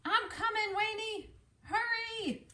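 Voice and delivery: high urgent little voice; hurry, hurry; high character voice. Acted.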